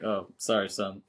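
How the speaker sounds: softly tossed-off British "sorry, son"; British-style "son". Shown as a demonstration. Workers apologizing after a mess-up, casual British-style apology. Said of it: "in a British way".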